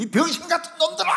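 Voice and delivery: high, full-force retold yell. Sick pastor alone on the mountain yelling abuse, full shout. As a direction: cut loose with a loud, high holler. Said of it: "막 이러면서 막 거기서 소리를 질렀습니다".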